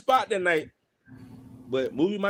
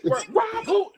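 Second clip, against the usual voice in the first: high, scoffing disbelief, much higher; mock disbelief; 5 dB louder than usual. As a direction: dare anyone to try. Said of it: "and Joe go".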